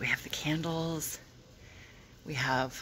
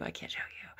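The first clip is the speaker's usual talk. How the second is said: secretive whisper; 8 dB quieter than usual. Real, not acted. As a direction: hush it like a secret. Teasing a hidden birthday gift.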